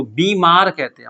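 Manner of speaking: बीमार with a long, held ई: "beee-maar"; long vowel. Shown as a demonstration. Teacher showing the class the spelling by ear, बीमार with long ई. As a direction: stretch the first vowel of बीमार. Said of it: "तो लंबा बोलते हैं हम लोग".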